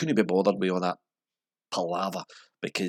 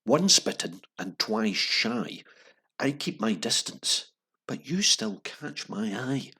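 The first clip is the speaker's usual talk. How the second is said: slow measured newsreader read; 4 semitones higher, much slower than usual. Shown as a demonstration. Host reading lyrics to the listeners in a newsreader voice. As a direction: read the lyric like the evening news. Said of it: "I'll read it out in my best sort of newsreading accent".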